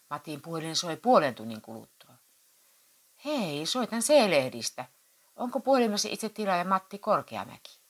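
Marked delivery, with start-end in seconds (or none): 3.2-7.8 a bright scripted sales greeting; salesperson voice. Acted. Telephone saleswoman greets Matti.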